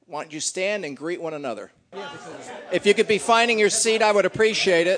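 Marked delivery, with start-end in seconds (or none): 2.7-5.0 louder, laughing as he herds everyone to their seats; calling out over the crowd. Real, not acted. Pastor calling the congregation back to their seats, loud and laughing. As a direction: raise your voice to round up a chatty room.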